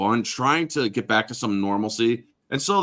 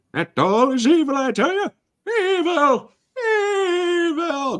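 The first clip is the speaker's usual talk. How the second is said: put-on cranky old man voice, higher; 3 dB louder than usual. Quoting a Halloween special warning about an evil doll: Grandpa Simpson voice. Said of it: "you're like Grandpa from The Simpsons".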